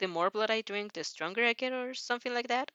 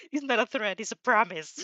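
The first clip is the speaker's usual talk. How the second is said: menacing threat; 3 dB louder than usual. Acted.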